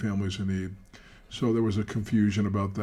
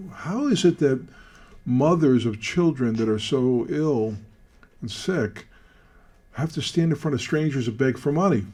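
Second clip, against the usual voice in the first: higher, louder, outraged questioning; indignant outburst; 3 semitones higher, 4 dB louder than usual. Retold or imitated. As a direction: demand an answer, fired up. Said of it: "I went".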